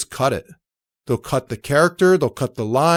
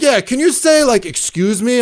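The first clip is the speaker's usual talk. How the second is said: much higher, brighter ask; imitating the crew; 9 semitones higher, 5 dB louder than usual. The crew asking him for a line, much higher and louder. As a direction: pitch it up as the cheerful crew. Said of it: "They're like".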